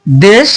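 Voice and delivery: দেশ with a close, pure "e"; natural "e" sound. Shown as a demonstration. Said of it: "এটা স্বাভাবিকভাবে আসলো". (দেশ-এ স্বাভাবিক সংবৃত এ উচ্চারণ)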